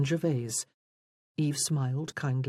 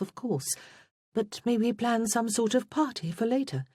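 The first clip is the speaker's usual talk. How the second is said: higher-pitched, lilting string of suggestions; eager young wife; 6 semitones higher than usual. A narrator's reading. Judith proposes Easter amusements to Wulfric, eager. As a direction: pitch it up, each idea a hopeful question.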